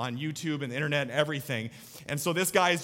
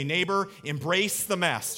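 smiling demo; 3 semitones higher, slower than usual. Shown as a demonstration. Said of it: "give him a big old smile and say".

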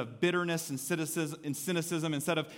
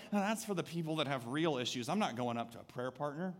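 muttered excuse; 6 dB quieter than usual. Retold or imitated. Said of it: "you're like".

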